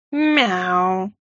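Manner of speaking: long, falling, disdainful meow; haughty purred meow. A narrator's reading. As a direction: purr it like a snooty cat. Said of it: "высокомерно промурлыкал кот". (высокомерное кошачье мурлыканье)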